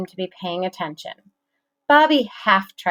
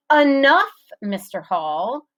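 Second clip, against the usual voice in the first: stern; 6 semitones higher than usual. A narrator's reading. Teacher scolding.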